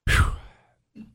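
unvoiced blowing out breath; long breathy whew; exasperated exhale. Real, not acted. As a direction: let the tension out. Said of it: "my blood pressure is high now".

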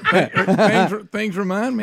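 laughing. Real, not acted. Laughing through the repeat.

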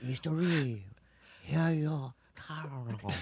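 slow, soft mock Asian accent. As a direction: imitate someone faking an Asian accent, drawn out. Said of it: "That's how he says it".

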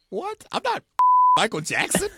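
squeaky high mock shock, laughing; surprised. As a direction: act startled, way up high. Retells own surprise on train.

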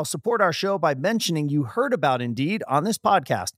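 smooth, upbeat sponsor read. Acted. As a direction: sell it like a friendly radio spot. Host reads sponsor ad.

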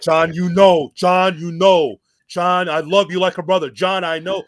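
lightly voiced Eddie, earnest and rambling; mumbled promo impression. Wrestler stalling on the mic to his friend, lightly imitated.

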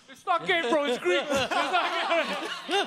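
drawn-out, laughing excuse voice; mock excuse. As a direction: laugh through a lame excuse. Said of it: "that's his excuse".

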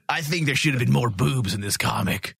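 mock-macho delivery; deliberate, overly manly put-on voice; deep voice. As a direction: play the hammed-up tough guy. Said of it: "let's just get a really deep voice".

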